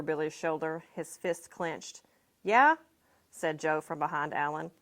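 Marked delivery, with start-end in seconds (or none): 2.4-2.8 high, loud snap of a question; defiant challenge. A narrator's reading. Joe behind Alan, defiantly challenging the other boys. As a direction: square up to them.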